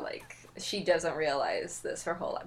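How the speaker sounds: whispered disbelief; exasperated whisper. Real, not acted. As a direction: mutter it under the breath, fed up. Exasperated aside.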